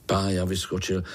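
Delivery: usual speaking voice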